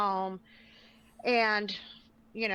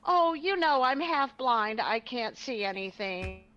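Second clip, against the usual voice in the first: excuse-making; slower than usual. Retold or imitated. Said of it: "Penny's like".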